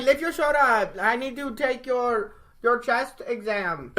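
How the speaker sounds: loud, high orders in a mock Asian accent; mock Asian-accented woman. Staffer ordering patient to lift shirt, mock Asian accent. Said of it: "She's like".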